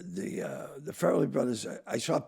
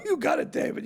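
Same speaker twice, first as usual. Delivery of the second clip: eager yes-man. Retold or imitated. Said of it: "And I go".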